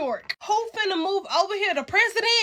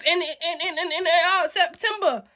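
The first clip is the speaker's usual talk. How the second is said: stuttering. Real, not acted. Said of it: "I'm stuttering".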